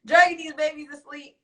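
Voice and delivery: high, loud outburst; loud exclamation. Real, not acted. Incredulous exclamation, then repeated low.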